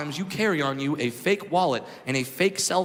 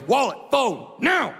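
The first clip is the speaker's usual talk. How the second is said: mugger's demand; 5 semitones higher, slower than usual. Retold or imitated. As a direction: threaten like a mugger with a gun. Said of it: "And the guy goes".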